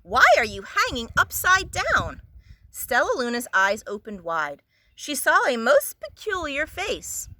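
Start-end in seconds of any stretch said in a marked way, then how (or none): 0.0-2.2 high, loud puzzled call. A narrator's reading. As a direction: call out, louder and higher. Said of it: "a loud voice said".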